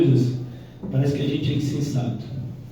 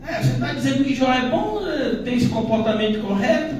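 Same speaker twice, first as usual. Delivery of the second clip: lightly voiced Satan, high and complaining; a hint of a sulky devil grumbling to God; mock whiny Satan; 8 semitones higher than usual. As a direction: whine it like the accuser. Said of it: "a entonação do mal ali é de reclamação".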